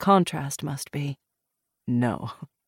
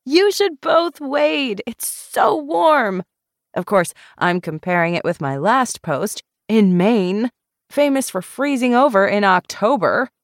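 bubbly Molly; 5 semitones higher, 4 dB louder than usual. A narrator's reading. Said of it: "Molly dashed up to them laughing".

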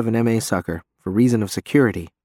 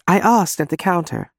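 apologetic; 6 semitones higher than usual. Acted. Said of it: "Janice says apologetically".

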